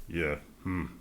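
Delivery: grudging, wants to leave; reluctant brush-off. Retold or imitated. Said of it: "people going".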